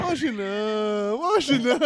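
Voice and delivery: slow, deflated announcer letdown; Formula One commentary. Retold or imitated. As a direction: drag it out in disappointment. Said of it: "aquela narração da Fórmula um".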